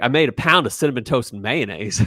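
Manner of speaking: put-on British comeback; fake British accent. Retelling the brother's defense in a fighting skit, fake British accent. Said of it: "he comes across with a British accent".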